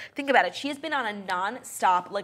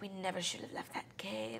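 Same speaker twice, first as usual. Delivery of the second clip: bad Irish accent; 14 dB quieter than usual. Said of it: "doing, like, the worst Irish accent".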